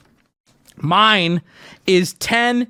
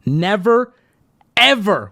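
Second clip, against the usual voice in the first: the note's all-caps words read a bit louder; 3 dB louder, slower than usual. Retold or imitated. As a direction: lean on each word as if written in capitals. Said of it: "we're now in all caps".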